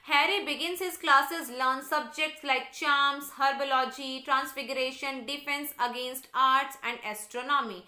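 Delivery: slow, deliberate textbook read-aloud; measured classroom reading. Real, not acted. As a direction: read it out slowly for a class, word by word. Reads the English text aloud.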